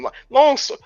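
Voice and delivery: mock announcer emphasis. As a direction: stretch it out like a ring announcer. Sarcastic jab at the booking.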